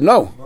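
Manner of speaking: "No" pitched high as a question. Acted. Owner answers will I be potter, questioning no. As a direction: say "No" high, querying the very idea. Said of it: "I said in a question mark".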